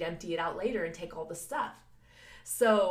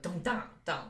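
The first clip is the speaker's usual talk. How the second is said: imitating heartbeat. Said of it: "like, this weird".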